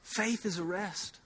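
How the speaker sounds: Faith is a rest said softly and slowly, easing off; quiet, unhurried repetition. Shown as a demonstration. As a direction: let it settle gently. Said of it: "I'm supposed to just say that over and over".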